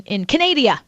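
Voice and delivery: Canada said as "ka-NAY-dee-uh"; jokey mispronunciation. Retold or imitated. Guest quoting Anthony's word for the country, Canada said "ka-NAY-dee-uh". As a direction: say Canada like "Ca-NAY-dia", stress on NAY. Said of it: "as Anthony would say".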